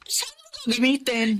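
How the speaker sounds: hushed, wary whisper; a friend whispering about the money. Acted. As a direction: whisper the question cautiously. Neighbour asks about the loan.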